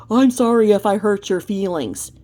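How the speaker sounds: a mock shouted apology; mock all caps. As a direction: parody her all-caps apology with a sneer. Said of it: "in all caps".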